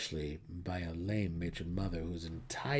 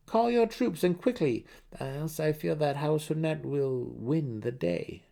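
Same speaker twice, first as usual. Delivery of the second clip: much higher, louder, urgent; Dinan, impatient noble son; 7 semitones higher, 4 dB louder than usual. Acted. Dinan urging Jarlaxle to call his troops. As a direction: press the mercenary to hurry.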